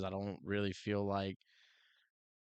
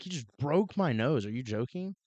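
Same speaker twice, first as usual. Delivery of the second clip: indignant disbelief; 5 semitones higher, 3 dB louder than usual. Retold or imitated. Indignant reply to officer.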